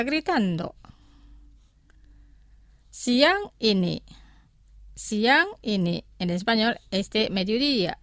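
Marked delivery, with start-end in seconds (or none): 2.9-6.0 slow, careful language-teacher delivery; slow pronunciation. Shown as a demonstration. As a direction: say it slowly for learners to repeat. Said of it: "Los pronunciaré lentamente". (pronunciación lenta para repetir)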